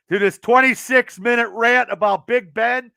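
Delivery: worn-out voice from ranting; hoarse voice. Real, not acted. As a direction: voice going hoarse and strained. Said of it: "I'm losing my voice".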